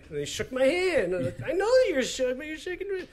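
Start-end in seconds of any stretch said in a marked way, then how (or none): 1.4-3.1 high, shrinking mock-nervous voice; imitating a starstruck, cowed reply; mock intimidated. Retells being shaken by intimidating celebrity.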